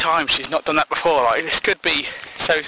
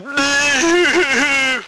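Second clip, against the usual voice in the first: mock crying; 12 semitones higher, 4 dB louder than usual. Imitates ugly crying faces.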